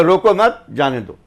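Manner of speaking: group मत with रोको, let जाने दो fall; pause after मत. Shown as a demonstration. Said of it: "के बाद कॉमा लगा दो".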